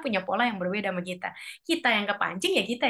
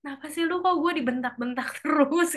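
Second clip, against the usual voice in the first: hurt complaint; 6 semitones higher than usual. Acted. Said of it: "walaupun mungkin hatinya meradang".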